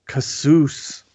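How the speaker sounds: Cassous slowly, in an American accent. Shown as a demonstration. Host signing off with his new favorite word, American accent. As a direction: say Cassous slowly with American vowels, plain final s. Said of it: "Is that a total American accent".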